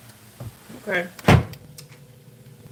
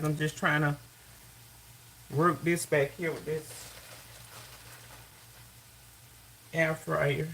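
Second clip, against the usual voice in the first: far from mic; 7 dB quieter, slower than usual. Real, not acted. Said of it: "if I sound far away".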